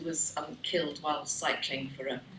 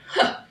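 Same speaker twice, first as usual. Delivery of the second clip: scoffing huh; 9 dB louder than usual. Retold or imitated. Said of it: "he read it and he went".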